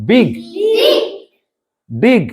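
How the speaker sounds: বিগ, ডিগ with a clear "i"; short-i words. Shown as a demonstration. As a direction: model বিগ, ডিগ one at a time. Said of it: "উচ্চারণ করো".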